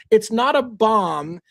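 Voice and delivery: slow, emphatic scoffing; deliberate slow put-down; dismissive. Retold or imitated. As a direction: spell it out slowly, unimpressed. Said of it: "and I'm like".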